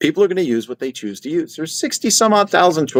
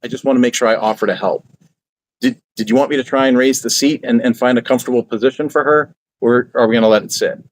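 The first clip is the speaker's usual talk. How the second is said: polite offer. Shown as a demonstration. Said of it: "I'll say it like this".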